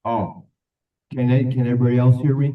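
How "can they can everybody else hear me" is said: louder and quicker, checking the room; speaking up. Real, not acted. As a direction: raise the voice for the back row. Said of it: "Speak up".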